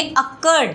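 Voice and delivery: "अकर्ड" with the weight on its second syllable, KURD; stress on last syllable. Shown as a demonstration. Teacher asking students to notice while saying it, final-syllable stress. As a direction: lean on the "कर्ड" in "अकर्ड". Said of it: "यूआर के ऊपर जोर दिया जा रहा है".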